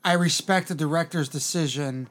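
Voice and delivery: slow, measured read of a tweet. Retold or imitated. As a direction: read it slowly, deliberately. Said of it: "It says something like, paraphrasing".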